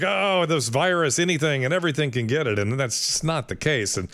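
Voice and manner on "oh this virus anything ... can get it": mocking quote. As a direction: sneer at the alarmists. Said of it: "Everybody's like".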